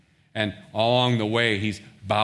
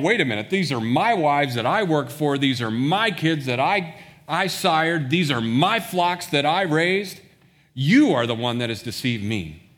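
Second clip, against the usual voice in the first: higher and louder, indignant protest; indignant Jacob; 4 semitones higher, 4 dB louder than usual. Retold or imitated. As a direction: climb in pitch with each list item. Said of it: "Jacob is indignant".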